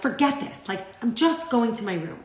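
put-on huffy teen storming off, pitch jumps on forget; mock-sulky teen, a touch of anger; angry teenager. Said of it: "like, angry teenager".

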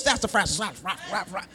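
low muttered cartoon dog grumble; hint of a grumbling cartoon dog; cartoon dog cussing. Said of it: "that little cartoon dog".

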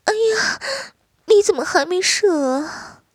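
high startled question. Acted. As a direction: caught off guard, asks in surprise. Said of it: "惊道".

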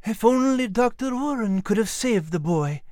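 put-on high, regretful old Scottish sergeant; sad. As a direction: lament gently in a Scottish voice. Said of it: "Sergeant Frost added sadly".

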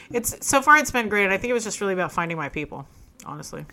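ordinary talk, nothing marked

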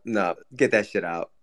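low mock growl; low put-on voice. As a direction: growl it like a grossed-out thug. Mock disgust at a bit.

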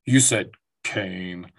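slow, low cartoon Butthead snicker voice; a bad stab at Butthead, drawn out; terrible Butthead impression. Bragging to a kid at school, a bad Butthead voice. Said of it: "That was a terrible Butthead impersonation".

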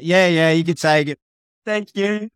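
high-pitched retold voices; imitated exchange. Surfers borrow the captain's board, high imitated voices. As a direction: act out the handover, pitched well up.

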